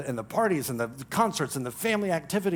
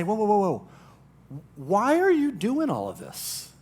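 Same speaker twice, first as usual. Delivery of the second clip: mock stopping her; 4 semitones higher than usual. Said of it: "and you were to say".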